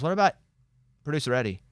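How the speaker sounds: hammed-up eager plea; mock excited plea. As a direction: Morgan begging the attendant, then thrilled. Morgan pleading then excited.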